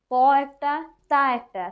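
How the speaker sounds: emphatic teaching. Shown as a demonstration. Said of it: "তা পাতলা হরফ কিন্তু".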